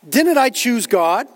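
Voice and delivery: mildly indignant, drawn-out challenge; a touch of indignant protest. Acted. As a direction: ask it slowly, as an affronted objector. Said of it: "somebody asks indignantly".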